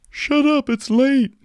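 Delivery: mock the neighbour complaining; grumpy neighbour. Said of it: "neighbor saying that".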